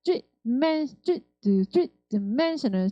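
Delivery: "three" punched, "di" weak, MEN stressed. Shown as a demonstration. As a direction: hit "three", drop D, lift "men" in dimensional. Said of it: "숫자는 강세가 있어요". (three 세게, D 약하게, 멘에 강세)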